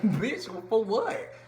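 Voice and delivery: slow, drawn-out disbelief; incredulous. Retold or imitated. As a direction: stretch it out, baffled. Incredulous reaction to the compliment.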